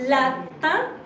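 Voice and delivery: "lapin" with a nasal French "un" ending; French pronunciation. Shown as a demonstration. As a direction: end "lapin" on a nasal vowel, no n. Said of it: "sounds like one, two, three, one".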